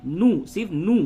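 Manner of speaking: نو cut short, no stretch; short vowel. Shown as a demonstration. Teacher contrasts short and long vowels, short نو. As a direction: say نو briefly, without lengthening the u. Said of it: "اسے جلدی سے پڑھیں گے".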